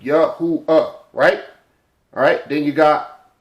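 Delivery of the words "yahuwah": "Yahuwah" in three distinct beats; three separate sounds. Shown as a demonstration. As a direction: split "Yahuwah" as Yah-hoo-uh. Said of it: "That's three".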